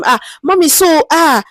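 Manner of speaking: a chatty, friendly hello to an elder; lightly voiced friendly researcher. Shown as a demonstration. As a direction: ease in gently like greeting a street cleaner you respect. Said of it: "Just ask them".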